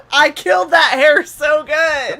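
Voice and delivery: slow, laughing triumph; triumphant. Real, not acted. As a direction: crow over the victory.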